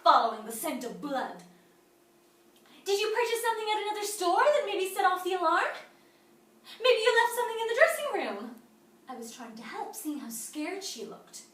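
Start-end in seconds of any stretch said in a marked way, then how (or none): 2.8-8.6 high-pitched, loud leading questions; urgent loud prompting. Acted. Store greeter covering for a scared teenage shoplifter, loud high-pitched prompting. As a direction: push the excuse at the suspect, voice raised high.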